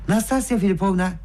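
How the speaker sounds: usual speaking voice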